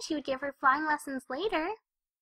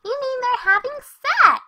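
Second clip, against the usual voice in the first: higher and louder, blurted aloud; loud tactless exclamation; 6 semitones higher, 6 dB louder, slower than usual. Acted. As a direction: say it too loud, oblivious. Loud blurted question at party.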